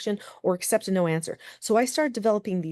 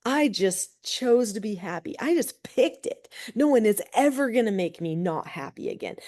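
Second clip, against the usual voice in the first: proud declaration; 3 semitones higher than usual. Retold or imitated. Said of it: "I was like".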